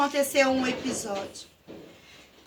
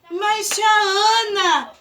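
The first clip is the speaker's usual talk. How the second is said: put-on pleading child; 4 semitones higher, 4 dB louder, much slower than usual.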